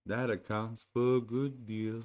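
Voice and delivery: slow, gloomy donkey; lightly voiced glum donkey; gloomy Eeyore. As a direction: mope over it. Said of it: "said Eeyore gloomily".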